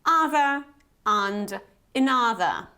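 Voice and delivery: "Other and another" spaced out, "UH-thuh", no final R; model pronunciation. Shown as a demonstration. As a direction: say "Other and another" carefully, British endings. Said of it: "let me pronounce them as well".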